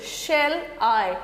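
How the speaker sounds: "Shall I" with SHALL stressed and I unstressed. Shown as a demonstration. Teacher demonstrating meter to students, stress "Shall", leave "I" unstressed. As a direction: lean on "Shall", let "I" fall away. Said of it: "Shall is stress, then I unstressed".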